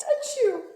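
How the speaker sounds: high, loud mock achoo; a playful imitated sneeze; retold sneeze. A narrator's reading. Reader retells the flea's sneeze, high mock achoo. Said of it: "he sneezed".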